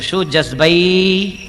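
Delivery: slow, loud shout of a name; deaf man's loud call. Retold or imitated. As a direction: call out as if you can't hear yourself. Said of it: "બેરો જોરથી બોલે હો". (બહેરા માણસની ધીમી, મોટેથી બૂમ)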